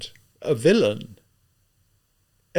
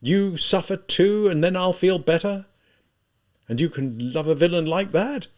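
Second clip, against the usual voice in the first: high, loud, exasperated pleading; anguished, insistent questioning; agitated outburst; 8 semitones higher, 6 dB louder than usual. A narrator's reading. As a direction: pour it out in torment, pitched up and forceful. Tormented outburst at weeping Sonia.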